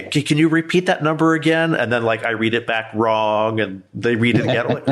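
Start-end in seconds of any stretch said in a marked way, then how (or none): 0.0-1.8 playing dumb. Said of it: "playing dumb with scammer".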